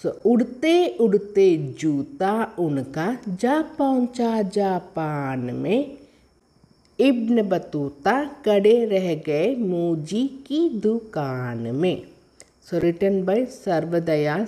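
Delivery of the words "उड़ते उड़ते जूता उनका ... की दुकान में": poem recitation. Shown as a demonstration. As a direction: recite it rhythmically for young pupils. Reads the poem to pupils. (ஏற்ற இறக்கத்துடன் கவிதை வாசிப்பு)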